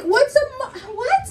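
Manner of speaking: high, stumbling incredulous question; baffled. Retold or imitated. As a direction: trip on the word, bewildered. Baffled by mother's word.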